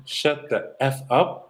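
slow, drawn-out reprimand; measured mock scolding; retold stern coach. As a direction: spell out the put-down slowly, word by word.

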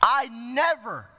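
slow, proud protest; a touch of wounded pride, slowly; proud elder son. Acted. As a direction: let the son's pride show as he says I never. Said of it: "you see pride coming in here".

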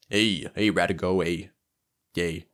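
lightly voiced goblin; a hint of goblin, calling someone over; improvised goblin. Goblin beckons the seaweed farmer over, lightly put-on creature voice. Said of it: "I made up this voice".

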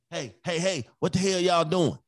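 acted parental holler; calling from room. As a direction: call out to the kids without getting up. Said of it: "but they hear my voice".

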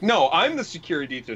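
petulant insistence. Retold or imitated. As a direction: imitate someone pulling rank in an argument. Acting out Anakin contradicting Amidala.

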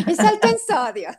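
mock the daughter reading the label; laughing daughter imitation. Mother imitating her daughter reading a label, high and laughing. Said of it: "Imagínate a mi hija".

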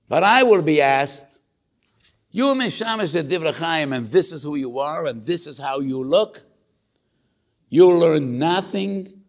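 a father berating himself, half in tears; anguished father's lament. Retold or imitated. Father voiced, lamenting his shortcoming.

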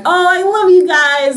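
high, slow gushing affection. Retold or imitated. Friend gushing love to the group, high and slow. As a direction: gush over your friends. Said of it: "she'll get all affectionate".

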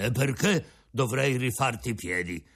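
put-on an old father offering his breakfast; old Geppetto. Geppetto refuses.

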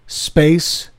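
slow Scottish Space Ghettos; Scottish accent. Shown as a demonstration. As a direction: say it like a Scot, slowly. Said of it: "If you want to say a band's name with a Scottish accent".

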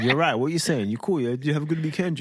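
imitating a cool kid in London slang tones; casual London boy impression; put-on London accent. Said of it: "he doesn't speak like that".

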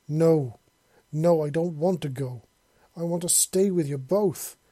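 loud, pleading cry against leaving; desperate, pleading outcry; desperate scream. Acted. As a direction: scream it out, begging to stay. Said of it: "he tried to scream".

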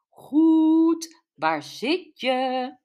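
high, bright mother on the phone; mother's voice. Acted. Mother asking her daughter where she is, pitched high.

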